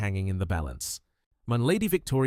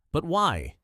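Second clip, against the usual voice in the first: anguished; 6 semitones higher, 3 dB louder than usual. A narrator's reading. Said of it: "Richard's voice was anguished".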